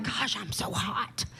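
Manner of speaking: soft breathy-free murmured mock complaint. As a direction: grumble it to yourself quietly. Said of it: "and I'd be like".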